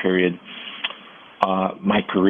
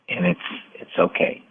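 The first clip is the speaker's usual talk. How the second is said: calming, comforting whisper. Retold or imitated. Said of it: "in a very calming, uh, comforting, confident way".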